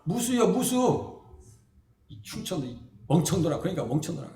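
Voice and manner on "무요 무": drawn-out Chungcheong word for radish; slow Chungcheong dialect. Retold or imitated. Customer insisting to shopkeeper, slow Chungcheong dialect. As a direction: drawl it Chungcheong style. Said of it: "우리 충청도 사투리라면은".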